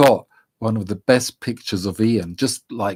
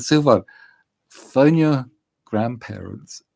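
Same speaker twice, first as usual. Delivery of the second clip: raised, urgent calling out to her son; urgent order; 3 semitones higher, 5 dB louder than usual. Retold or imitated. Mother shouting instructions to her son after the injury, urgent. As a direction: call it out across the field to get him moving.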